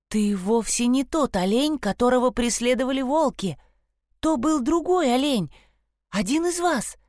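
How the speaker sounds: lightly voiced eager girl; young girl voice. Sasha speaks to the stag.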